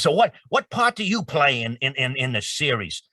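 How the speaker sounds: imitating an old man's curious question; elderly Stan Lee voice. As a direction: play the old comics legend asking. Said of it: "He says".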